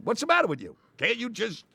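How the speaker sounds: high-pitched irritated mock yell, slowing on the end; exasperated yelling director. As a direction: scold the actor for ruining the take. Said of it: "He comes with another yelling".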